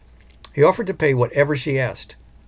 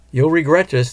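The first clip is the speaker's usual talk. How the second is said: angry threat; 4 semitones higher, 6 dB louder than usual. A narrator's reading. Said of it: "the woman replied angrily".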